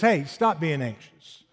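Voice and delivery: slow, gentle voicing of Paul's command; calm command. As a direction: say it calmly and slowly as Paul. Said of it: "He says".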